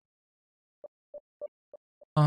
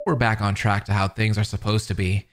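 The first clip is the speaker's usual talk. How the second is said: lightly voiced cheerful creep, a bit lower; chipper stalker; 4 semitones lower than usual. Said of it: "The chipper tone in his voice".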